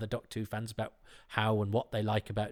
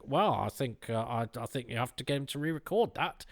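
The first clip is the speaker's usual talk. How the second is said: nasal, whiny fan voice; 2 semitones higher than usual. Retold or imitated. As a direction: pinch it through the nose like a pedantic fan. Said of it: "I always give a Doctor Who fan a nasal voice like this".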